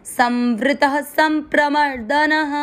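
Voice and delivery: chanted slowly, संप्रमर्दनः stressed; slow recitation. Shown as a demonstration. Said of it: "देखो संवृतः नहीं बोला है".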